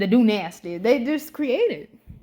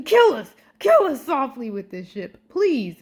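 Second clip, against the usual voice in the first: excited plea; 3 semitones higher, 5 dB louder than usual. Real, not acted. Fangirling plea over a ship.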